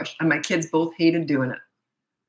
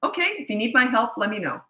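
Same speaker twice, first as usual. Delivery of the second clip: reassuring; 3 semitones higher than usual. Shown as a demonstration. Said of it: "just say".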